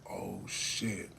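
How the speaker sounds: breathless unvoiced oh shit; whispered dread. Realizing he may not walk again, a scared whisper. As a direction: whisper it in fear. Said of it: "fearing paralysis".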